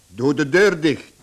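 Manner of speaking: loud, curt command; a father snapping at his daughter to shut the door; stern order. Acted.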